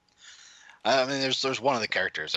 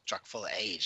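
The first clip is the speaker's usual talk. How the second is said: 1 whisper; 5 dB quieter than usual. Real, not acted. Joke punchline whisper.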